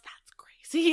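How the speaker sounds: voiceless imitation of mouthed words; mouthed whisper. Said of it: "he, like, mouths".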